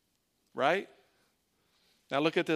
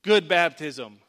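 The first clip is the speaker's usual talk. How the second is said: loud, hammed-up cheer like a coach; mock heavenly voice cheering after baptism; mock cheery God; 4 semitones higher, 12 dB louder, slower than usual. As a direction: shout it like a pumped-up sports fan.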